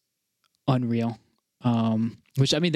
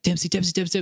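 retold scream; 6 semitones higher than usual. Fan retells calling his idol over and over, mock scream. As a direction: imitate an insistent fan yelling, held back. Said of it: "like, screaming at him".

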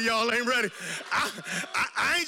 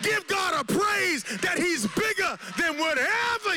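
preaching at full force; 3 semitones higher than usual. Real, not acted. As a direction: lift the church with each line.

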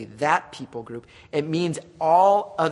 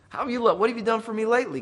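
whiny mocking complaint; 5 semitones higher, faster than usual. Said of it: "He's like".

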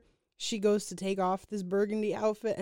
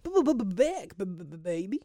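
mock stutter; slower than usual. Mimicking stutter.

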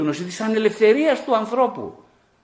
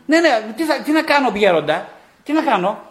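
high, louder, pleading believer asking what to do; mock plea to the elder; 6 semitones higher, 6 dB louder than usual. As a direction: ham up a helpless disciple begging the elder. (κωμική ικεσία πιστού προς τον γέροντα, ψηλή και δυνατή φωνή)

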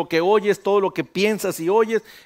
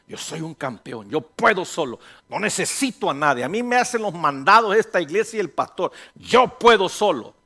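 cocky self-talk, building louder; boastful inner voice; 3 dB louder than usual. Acted. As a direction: brag with rising force, stretching the last line. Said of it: "esa es la voz del demonio en ti".

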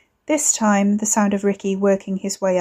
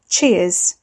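a short, sour, louder Cheers; mild bitter sarcasm; 4 dB louder than usual. Acted. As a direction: throw the thanks back sarcastically. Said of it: "he said bitterly".

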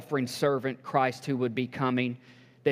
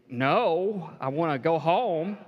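mock whiny congregation; 4 semitones higher, slower than usual. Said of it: "what if people are gonna say".

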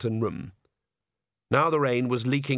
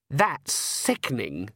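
slow, sulky revulsion; disgusted daughter; much slower than usual. Acted. Daughter objects to parents drinking wine, disgusted. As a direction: drag it out in disgust.

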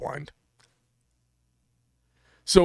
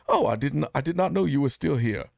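lightly voiced movie gunslinger; a touch of a put-on film voice; Doc Holliday. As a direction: quote the film line with a hint of impression. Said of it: "Doc Holliday said".

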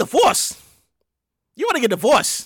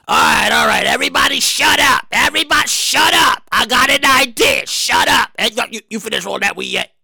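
bossy host; 4 semitones lower than usual. Pretend. Acts out a bossy party host.

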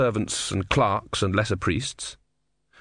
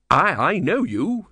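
high, halting nervous voice; nervous stammer; 7 semitones higher than usual. A narrator's reading. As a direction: stammer with shaky pride. Stammering before Death.

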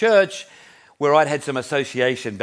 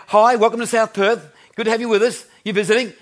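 imitating a friendly welcome, higher and louder; lightly acted church welcome to a newcomer; warm greeting; 8 semitones higher, 4 dB louder than usual. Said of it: "very warmly, she said".

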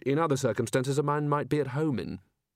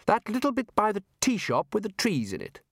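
put-on higher, tart old wizard; 9 semitones higher than usual. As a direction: answer with tart impatience. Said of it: "said Ridcully tartly".

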